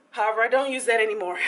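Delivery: fast, laughing it off. Real, not acted. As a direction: chuckle through the line. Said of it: "laughing, fast".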